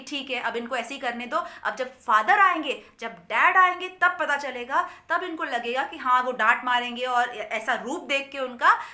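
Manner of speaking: gleefully plan the reveal; eager children. Retold or imitated. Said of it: "दोनों बातें करते हैं". (बच्चे उत्साह से बात करते हुए)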